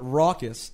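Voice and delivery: "Raucus" said RAW-kus, open first vowel; correct pronunciation. Shown as a demonstration. Host explaining the name to the rapper, open-vowel "Raucus". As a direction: stress the open "Rau" in "Raucus". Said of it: "is pronounced Raucus".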